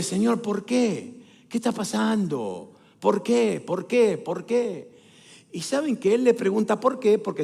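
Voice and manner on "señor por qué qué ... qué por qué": slow, measured questioning of God; pleading question. Acted. David asks the Lord why, slow pleading. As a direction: ask it slowly, letting each question fall. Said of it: "ve todo esto y le dice".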